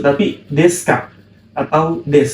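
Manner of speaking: "deska" and "des" said without the u; u dropped. Shown as a demonstration. Teacher corrects students' reading of desu, u swallowed. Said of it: "dibacanya bukan desuka".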